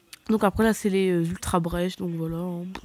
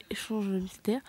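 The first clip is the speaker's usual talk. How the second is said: breathy whispered aside; 8 dB quieter, slower than usual. Real, not acted. Reading a box label to herself, whispered. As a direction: murmur the name under her breath. Aside while sorting her Pokémon.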